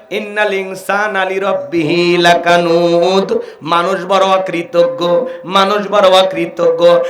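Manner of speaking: slow chanted verse; slow recited scripture; Quran recitation. Acted. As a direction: intone the verse solemnly.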